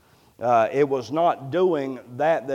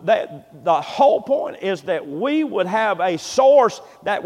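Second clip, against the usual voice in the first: raised, insistent pulpit voice; fervent preaching; 5 semitones higher, 8 dB louder than usual. Acted. Preacher urging believers to bear for others, fervent. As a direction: push the point home to the congregation.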